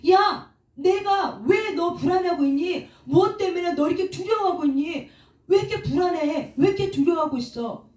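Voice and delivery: high-pitched, pressing self-questioning; confronting oneself. Acted. Speaker confronting own anxious soul, pressing and insistent. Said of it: "내 영혼에 나한테 내가 말하는 거야".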